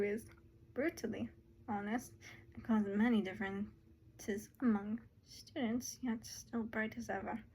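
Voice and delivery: a hint of a British accent; British-adjacent accent. Madam Fuchsia addresses her graduating wizards, lightly British. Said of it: "trying to make her British".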